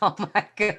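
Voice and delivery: laughing. Real, not acted. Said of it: "I love it".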